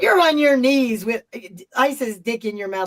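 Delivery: loud, incredulous telling-off; retold rant, challenging someone loudly; loud indignant challenge; indignant outburst. Indignant outburst at Shane in retelling.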